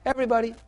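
Everybody said high and stressed; emphatic everybody. Real, not acted. Preacher stressing God's love for all, high emphasis. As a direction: ring out Everybody. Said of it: "he loves everybody".

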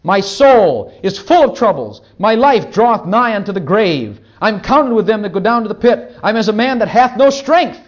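emphatic psalm reading from the pulpit; scripture reading. Acted. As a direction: declaim the psalm with force. Reads a psalm aloud.

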